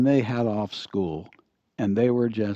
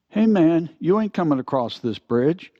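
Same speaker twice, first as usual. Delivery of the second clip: troll threat; 6 semitones higher, 5 dB louder than usual. Acted. Biker troll blocks the bridge.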